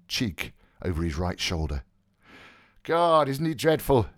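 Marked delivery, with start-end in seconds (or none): 2.8-4.1 frank. Acted. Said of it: "he said frankly".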